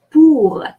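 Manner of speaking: "pour" in French with its final R sounded; final R pronounced. Shown as a demonstration. Teacher presenting an exception to learners, "pour" with final R sounded. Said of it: "the final R is pronounced".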